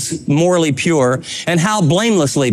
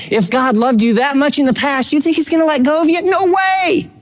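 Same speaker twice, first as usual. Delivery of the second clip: emphatic denial; 7 semitones higher than usual. Real, not acted. Rhetorical question, emphatic denial.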